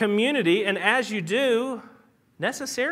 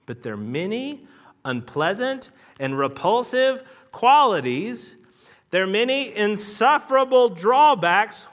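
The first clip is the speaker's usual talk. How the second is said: slow, weighty reading that builds louder; dramatic quote reading; 4 dB louder, slower than usual. Acted. Preacher reads the philosopher's quote to the congregation, slow building declamation. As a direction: read it out deliberately, swelling towards the end.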